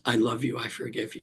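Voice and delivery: soft, tender, dropping to near silence; gentle forgiveness. Retold or imitated. Little girl tenderly forgiving him in the vision, softly. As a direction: say it like a gentle blessing.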